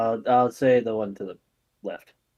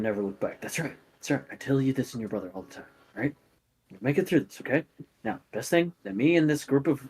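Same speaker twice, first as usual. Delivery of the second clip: put-on softer, quick dad comforting his kid; a father calms his scared child; reassuring dad; 5 dB quieter, faster than usual. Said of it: "kinda goes".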